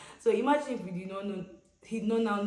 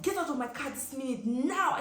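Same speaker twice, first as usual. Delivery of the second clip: retold shout; 6 semitones higher than usual. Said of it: "And he's shouting".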